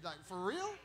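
normal talking voice

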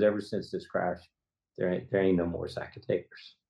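low, subdued quote of a grieving father; retold, close to tears. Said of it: "I cry every time".

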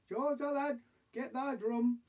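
high-pitched general's order; commanding Wellington. Acted. Wellington ordering the drummer boy to get ready, commanding. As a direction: call the drummer boy to duty.

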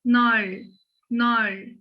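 nol with a thick, heavy L; wrong hard L. Shown as a demonstration. Teacher warns students off a heavy L in nol. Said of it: "Bunu okurken nol demiyoruz".

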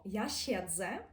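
«я щедзе» slowly with a hard дз; teacher shows the hard дз; hard Polish sounds. Shown as a demonstration. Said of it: "Ми досить твердо кажемо".

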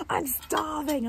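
high, slow, pitiful horse voice; drawn-out plea from a hungry mare; the mare whining at her owner, slow and high; voicing the horse. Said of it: "Her little face was like".

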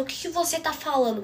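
mocking the mother's shocked reply; indignant mother. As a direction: imitate mom catching her breath in outrage. Mother reacts in quarrel, retold.

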